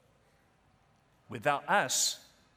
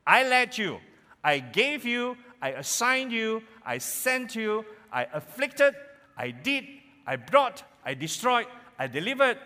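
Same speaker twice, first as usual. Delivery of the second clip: voice of God; 4 semitones higher than usual. Acted. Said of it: "as God".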